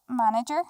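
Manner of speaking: "Manager?" with a rising, questioning end; questioning intonation. Acted. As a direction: say "Manager?" as if unsure it's the answer. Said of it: "You say that like it's a question".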